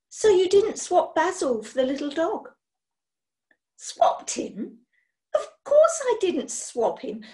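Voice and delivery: lightly voiced hurt lady; wounded witch. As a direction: plead your good intentions. Witch explains her mission.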